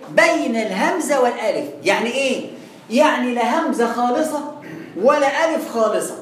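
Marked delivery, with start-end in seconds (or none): 0.1-1.7 slow deliberate definition. Shown as a demonstration. Teacher stresses the rule. 2.9-6.2 slow deliberate explanation. Shown as a demonstration. Teacher spells out the rule.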